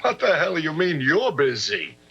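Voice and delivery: exasperated, jumping high and loud at the end; irritated demand. Acted. Husband ordering wife to break her lunch date, irritated. Husband angered by wife's refusal.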